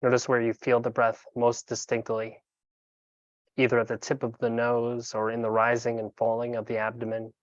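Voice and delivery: calm, unhurried meditation guide with long pauses; guided meditation. Acted. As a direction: guide them gently into breath awareness, leaving room between phrases.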